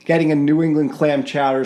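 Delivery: put-on mild Boston accent on chowder; a hint of Boston in clam chowder; light Boston accent; Boston accent attempt. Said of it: "my attempt at Boston accent".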